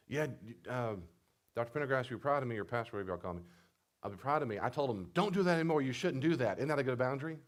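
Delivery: high, loud, boastful client voice; loud proud boasting. Retold or imitated. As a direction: brag like a pleased patient. Mock client proudly reporting.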